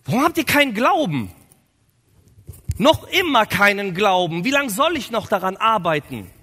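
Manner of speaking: loud, high-pitched exasperation; acted outburst of impatient reproach; really annoyed. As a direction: scold them, completely fed up. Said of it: "Jesus ist richtig genervt".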